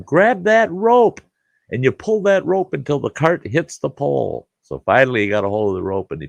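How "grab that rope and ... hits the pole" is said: angry yell. Retold or imitated. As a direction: bark the orders, fed up and pissed off. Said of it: "I yelled at him".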